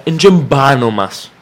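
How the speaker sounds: slow, folksy Cypriot Greek phrasing; Cypriot Greek dialect. Retold or imitated. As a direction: say it like a Cypriot local. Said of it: "να το πω στα κυπριακά".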